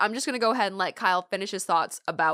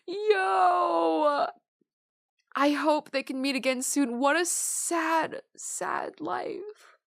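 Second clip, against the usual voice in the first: slow, tearful and higher; fighting back real tears; choked up; 6 semitones higher, much slower than usual. Real, not acted. Streamer reacting to a sad ending, slow and tearful. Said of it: "I have actual tears in my eyes right now".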